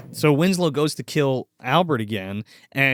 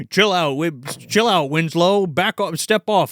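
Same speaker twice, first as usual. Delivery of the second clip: lightly put-on homeboy talk; drawn-out, mock-cool brush-off; imitated street slang. Film fan voices Albert telling Winslow to back off, imitated homeboy talk. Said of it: "talking like them".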